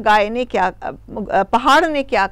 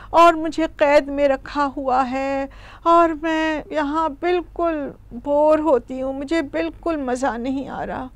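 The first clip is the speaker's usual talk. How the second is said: mildly weary grumble, acted; lightly voiced long-suffering cow; sighing complaint; 2 semitones higher than usual. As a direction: air your grievances with an understated sigh. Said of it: "ٹھنڈی سی ہوا لیتی ہے، سانس بھرتی ہے".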